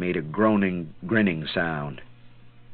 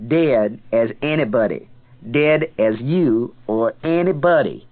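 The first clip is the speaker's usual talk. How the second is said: angry woman; 6 semitones higher, 5 dB louder than usual. Acted. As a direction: throw him out of the bar. Woman orders him out.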